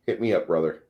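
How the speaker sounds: usual speaking voice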